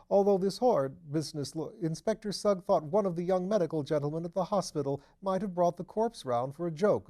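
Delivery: a nervous, eager tenant chattering away; Mr Thipps. Acted.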